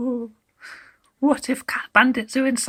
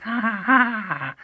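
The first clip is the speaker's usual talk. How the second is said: mocking laughter. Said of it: "How the older kittens laughed".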